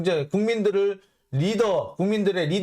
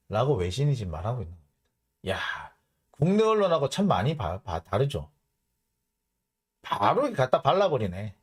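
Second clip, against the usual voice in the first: ordinary talk, nothing marked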